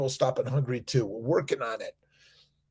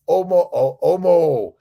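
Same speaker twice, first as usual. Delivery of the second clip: excited greeting; 4 semitones higher, 8 dB louder than usual. Real, not acted.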